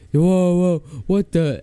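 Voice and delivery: high, loud mock-startled whoas; startled protest. Storyteller stopping the girl's advances, mock-startled. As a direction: act out being caught off guard.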